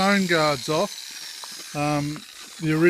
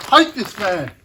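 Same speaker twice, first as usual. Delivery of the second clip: pained, wincing through a cut finger; 4 semitones higher, 6 dB louder than usual. Real, not acted. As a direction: grimace from the sliced finger. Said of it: "Sliced me finger open".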